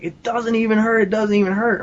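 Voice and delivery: high-pitched, overwhelmed exclamation, no real sobs; mild mock wail of amazement; imitated bawling. Friend curling a milk jug overhead, imitated bawling. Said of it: "he's just bawling".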